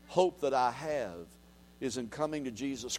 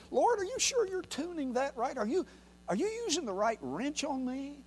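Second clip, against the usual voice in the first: fretting believer; 9 semitones higher, 6 dB quieter than usual. Pretend. Fretting believer questions God mechanic.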